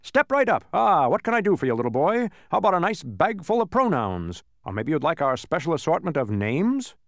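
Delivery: booming pitch that eases off; booming salesman. Acted. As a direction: keep booming, then settle down. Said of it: "in a booming voice".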